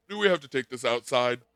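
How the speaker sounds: mock challenge in a put-on big-guy voice; deepened tough-guy voice. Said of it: "deepens his voice so it sounds tougher".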